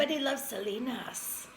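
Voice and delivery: "Selena's" ending in a hissing S, not a Z; film-character imitation. Quoting the brother from the film, "Selena's" with final S. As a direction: mimic the line, ending "Selena's" on a sharp S. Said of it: "He said it with an S".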